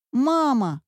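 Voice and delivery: put-on high child's call. A narrator's reading. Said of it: "закричал мальчик". (мальчик зовёт маму, выше)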